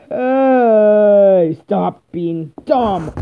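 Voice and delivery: loud, sharp "hey", then slow scolding; angry yell. Acted. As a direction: yell at him to stop. Yelling at a god.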